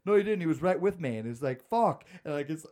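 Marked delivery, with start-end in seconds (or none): 0.0-1.2 higher, loud retort; arguing shout. Retold or imitated. Kids arguing in a tag game. 1.7-2.0 frustrated curse. Retold or imitated. Caught out in the game.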